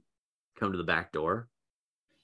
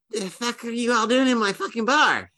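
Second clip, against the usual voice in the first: higher, angry goblin snarl; Mince the Goblin; 8 semitones higher, 4 dB louder than usual. Acted. Goblin bar owner yells at the trespassers, higher and angry. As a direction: snap at the intruders like a cranky goblin. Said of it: "you see Mince the Goblin".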